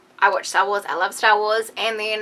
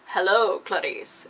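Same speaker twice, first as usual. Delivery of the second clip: creepy Hannibal; 3 semitones lower, slower than usual. Retold or imitated. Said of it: "in his creepy little voice".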